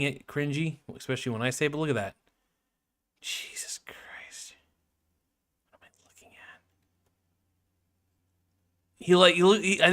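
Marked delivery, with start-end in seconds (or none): 3.2-6.6 hushed disbelieving whisper. Real, not acted. Whispering in disbelief at the cringe photo. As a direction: breathe it out in shock.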